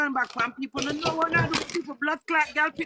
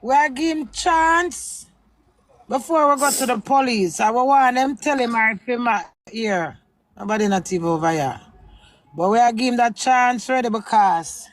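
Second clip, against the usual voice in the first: loud, heated rant at a man who hung up; real anger raised against Froggy; angry public warning; 2 semitones lower, 5 dB louder than usual. Real, not acted. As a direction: call him out loudly and furiously.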